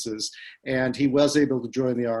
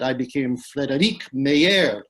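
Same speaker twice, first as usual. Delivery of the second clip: mock French accent; 4 dB louder than usual. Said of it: "he did the accent that he used to become a Frenchman".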